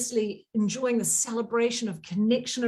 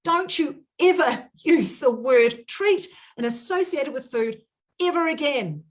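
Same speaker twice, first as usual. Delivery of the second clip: heated, emphatic warning; very worked up; 2 semitones higher than usual. Real, not acted. Coach forbids followers the word treat, very worked up. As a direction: lay down the law with feeling. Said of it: "I'm getting very excited".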